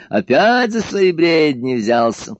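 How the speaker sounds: high, slow, jovial teasing; cheerful exclaim. A narrator's reading. Emperor mocks the doctor's ravings, jovially. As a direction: tease him with merry scorn. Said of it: "весело воскликнул император".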